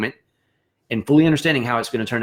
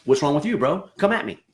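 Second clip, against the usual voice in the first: higher, combative come at me; defensive comeback; 4 semitones higher than usual. Retold or imitated. Bandmate firing back at the accuser, mock combative. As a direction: bristle back and dare them. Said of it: "You're gonna be like".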